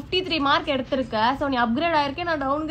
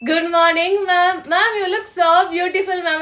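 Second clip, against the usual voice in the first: mock flattery; 3 semitones higher, much slower than usual. Flattering teacher, sweet-talk.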